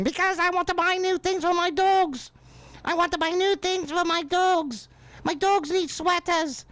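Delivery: hammed-up shrill Sharon voice; Sharon whining. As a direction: whine about the dogs. Acted exchange between Sharon and her rock-singer husband.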